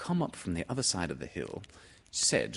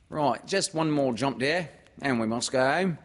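high, louder mother character; fussing mother, pitched up; Kanga; 7 semitones higher, 5 dB louder than usual. Acted. Mother calling her child home, in a high fussing voice.

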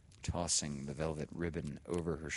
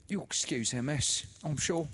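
much higher and louder, syrupy; oily sister; 10 semitones higher, 5 dB louder than usual. A narrator's reading. Sister comforts the widow, much higher and syrupy. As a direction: soothe with fawning sweetness.

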